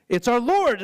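high, loud joyful shout; excited Peter. Retold or imitated. Peter recognizing Jesus from the boat, loud and joyful. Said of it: "And Peter's like".

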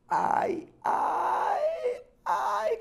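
high, squealing ai ai ai; excited yelps. Real, not acted. Excited pain yelp over card.

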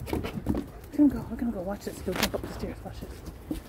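soft, half-whispered; hushed aside. Real, not acted. Owner hushing to viewers before a trick, quiet.

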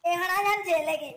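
loud, scolding rebuke; angry scolding. Acted. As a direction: tell him off loudly.

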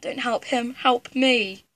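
breathy mock pleas for help; fluttering cries for help. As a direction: whimper help me like a damsel. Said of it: "you better just go".

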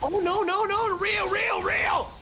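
very high, loud panicked squeal; alarmed cry. Real, not acted. Player warning teammates of real players, high alarmed squeal.

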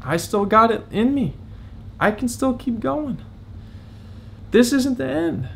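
rally yourself, climbing as you go; determined self-pep talk. Retold or imitated. Talking himself back up after taking hits, rising resolve. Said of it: "can I still bring myself to say".

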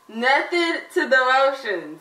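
slow and garbled through mouthguard; wearing a mouthguard. Real, not acted. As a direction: spell it out past the guard. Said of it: "it's hard to understand".

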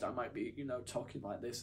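mild teary mumble; about to cry. Shown as a demonstration. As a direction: sound a little demoralised and close to crying. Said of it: "which sounds like I'm about to cry".

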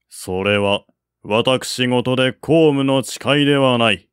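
stern general. Acted. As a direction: lay down the law to a kinsman. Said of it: "睨まえていった". (厳しく言い渡す将軍の声)

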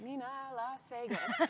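Scott Dooley. Retold or imitated. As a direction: stretch out the name like a playful nickname. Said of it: "He just called me it from day one, just like".

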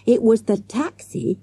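high, mildly breathless excitement; a touch out of breath. A narrator's reading. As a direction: add it as a breathless revelation. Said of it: "he added breathlessly".

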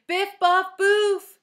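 slow, high, booming silly words. A narrator's reading. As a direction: belt out each nonsense word slowly. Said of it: "said Myron a little louder".

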